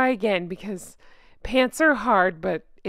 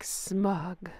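smug caption; 4 semitones lower, 11 dB quieter than usual. Pretend. One-word smug caption.

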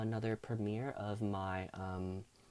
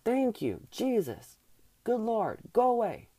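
retold inner relief; 8 semitones higher, 5 dB louder than usual. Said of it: "was what I was thinking in my head".

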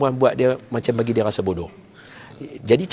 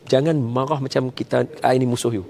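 calm reassurance to wife; 5 dB quieter than usual. Retold or imitated. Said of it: "saya kata".

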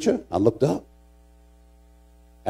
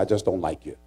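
retold retort; 6 semitones lower, 7 dB quieter, faster than usual. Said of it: "I said".

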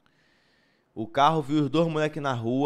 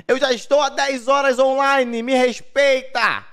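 laughing; 8 semitones higher, 6 dB louder than usual. Real, not acted. Laughing mock-indignant rant.

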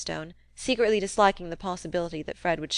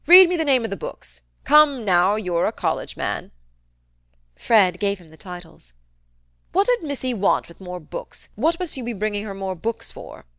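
put-on a crusty old man needling his nephew, loud; gruff old uncle; 4 dB louder than usual. Old uncle goading nephew Fred about the rumour, crusty taunt. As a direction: jab at him like a sly old miser.

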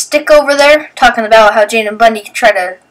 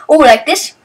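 teasing; 4 semitones higher than usual. Retold or imitated. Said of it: "I'm like".

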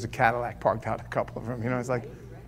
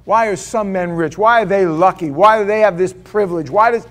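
louder and louder, pressing each why; rising preaching; 6 dB louder than usual. Acted. Preacher pressing the congregation with questions, growing loud. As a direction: hammer the questions home to the crowd.

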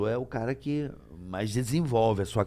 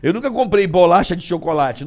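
laughing; 6 semitones higher, 7 dB louder than usual. Real, not acted. Said with a laugh, louder.

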